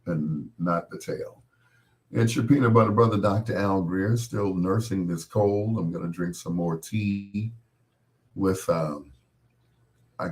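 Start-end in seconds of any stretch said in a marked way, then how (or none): 2.1-5.8 radio DJ announcer. Acted. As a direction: announce yourself like a radio host. Radio host sign-on.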